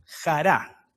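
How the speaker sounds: "jará" repeated alone, stressed on the last A; a lone "jará", accented on its closing syllable; stress on final A. Shown as a demonstration. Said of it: "con acento en la A".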